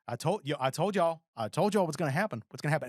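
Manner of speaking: lightly voiced scolding cat; mock scolding cat. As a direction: play a cat saying I warned you. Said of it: "he'll play the cat".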